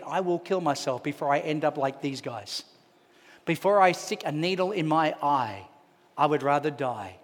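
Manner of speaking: low, soft, grave inner voice; grim resolve. Retold or imitated. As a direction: voice dark thoughts quietly, retold soberly. Brother's despairing thoughts, retold.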